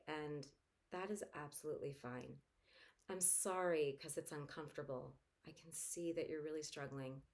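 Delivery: mother softly reassuring an anxious son; soothing parent. Shown as a demonstration. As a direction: comfort the struggling kid softly. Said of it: "And even say to your child".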